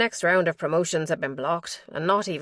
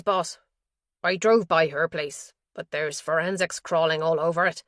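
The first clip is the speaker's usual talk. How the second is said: a hint of a rough underling, a bit louder; lightly voiced henchman; 4 dB louder than usual. Henchman reporting to his boss, lightly voiced, a bit louder. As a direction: report to the boss, slightly raised and eager.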